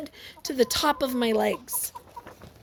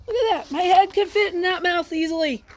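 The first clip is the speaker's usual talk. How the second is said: higher, lively amazement; excited; 5 semitones higher, faster than usual. Real, not acted. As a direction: keep the awe in the voice. Still amazed at crocodile.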